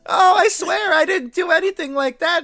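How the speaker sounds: high, panicked begging; scared pleading. Acted. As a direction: beg for your life, terrified. Shopkeeper begs, intimidated.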